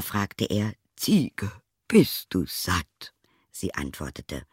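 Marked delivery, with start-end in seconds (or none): 1.0-3.1 questioning tailor. A narrator's reading. Tailor questions his goat.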